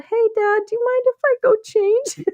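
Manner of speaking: begging dad to let her go, half laughing; pleading through laughter. Retold or imitated. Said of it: "I just said".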